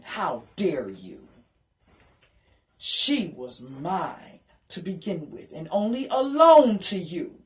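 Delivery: slow, stern rebuke in a lightly voiced God; God rebuking. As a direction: lay it down slowly as God scolding. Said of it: "he started speaking and he was yelling".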